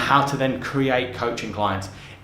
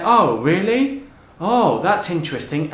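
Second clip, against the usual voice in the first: intrigued; 3 semitones higher than usual. Retold or imitated. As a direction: play the listener whose curiosity is caught. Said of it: "they would lean forward".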